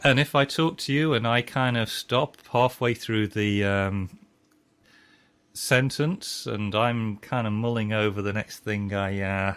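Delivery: slow, halting, mulling mid-sentence; halting with pauses. Shown as a demonstration. Slow talker demonstrating pauses to his cohost, halting. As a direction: drift and pause as if thinking. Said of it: "So I'm doing the pauses".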